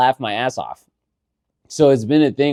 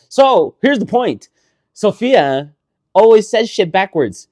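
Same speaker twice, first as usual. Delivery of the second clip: emphatic, louder; 10 semitones higher, 7 dB louder than usual. Real, not acted. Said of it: "making his point emphatically".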